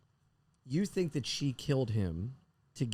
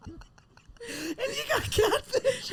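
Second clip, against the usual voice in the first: laughing; much slower than usual. Real, not acted. Friend laughing at her joke.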